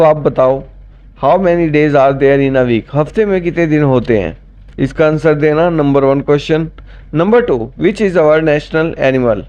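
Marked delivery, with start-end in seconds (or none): 1.2-2.9 slow dictation. Shown as a demonstration. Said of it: "quiz question read slowly". 7.1-9.4 slow dictation. Shown as a demonstration. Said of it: "quiz question read slowly".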